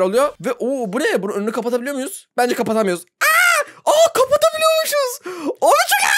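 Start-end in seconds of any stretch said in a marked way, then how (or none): 3.0-6.2 thrilled yelp. Real, not acted. Blocks path, thrilled surprise.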